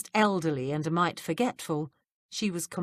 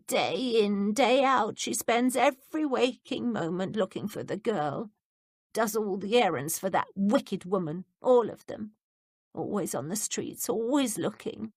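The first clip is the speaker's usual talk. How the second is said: a lightly voiced, higher frail old lady; old woman grieving for her overworked Tommy; lamenting old woman; 4 semitones higher than usual. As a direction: fret sadly over her Tommy. Voices the frail Miss Bush.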